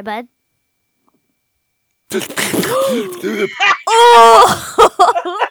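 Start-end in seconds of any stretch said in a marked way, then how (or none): 2.1-5.5 shrieking laugh. Real, not acted. Gross noise reaction.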